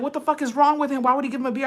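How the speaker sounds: retold dad's outrage. Dad on speaker reacting to the beer, mock outraged.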